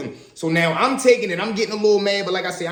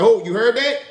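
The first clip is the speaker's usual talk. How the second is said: principal catching them; 4 semitones higher, 3 dB louder than usual. Retold or imitated. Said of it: "the principal like".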